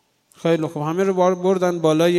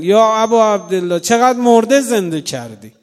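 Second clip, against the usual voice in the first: raised, pleading invocation; fervent invocation; 3 semitones higher, 6 dB louder than usual. Acted. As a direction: call on him with full voice. Invocation to Imam Hussain.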